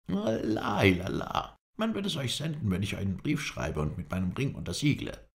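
desperate plea. A narrator's reading. Captive desperately pleads.

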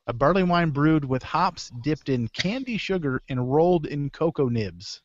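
slow, deliberate reading of the beer description; said slowly. Shown as a demonstration. Host reading a long beer description slowly for listeners. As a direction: spell out each ingredient slowly. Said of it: "I'm gonna say this slow".

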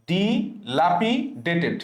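ডিলাপিডেটেড very slowly as "di, lapi, dated"; broken-up word. Shown as a demonstration. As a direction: pause after ডি in ডিলাপিডেটেড. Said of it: "ডিটাকে সবসময় আলাদা করে".

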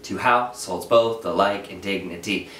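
"Two house holds both the like and dignity" hammered into even da-DUM beats, slowly; exaggerated meter. Shown as a demonstration. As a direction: overdo the iambic beat so it is heard. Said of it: "Now I'm exaggerating it for you to hear it".

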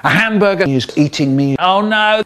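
ordinary delivery

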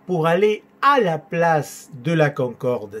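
slow teaching line, "à" picked out; stress on the optional À. Shown as a demonstration. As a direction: lean on the word "à" before "la place". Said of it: "se permite omitir el A".

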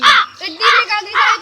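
shout. Acted. Farm quarrel, shouted retort.

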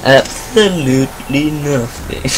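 deadpan joke. Pretend. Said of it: "I'm only joking".

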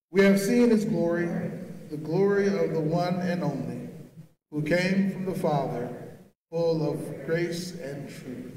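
measured congregational recitation, slowing at the end; solemn recitation drawing out the last phrase; liturgical response. Acted. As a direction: lead the congregation in a spoken response. Leads the seasonal congregational response.

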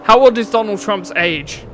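mocking quote. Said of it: "the most stupid and grammatically incorrect sentence".

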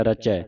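ਰਚੈ with a wide final ai; open ai ending. Shown as a demonstration. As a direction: finish ਰਚੈ on an open vowel. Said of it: "ਇੱਥੇ ਦਲਾਵਾਂ ਲੱਗੀਆਂ".

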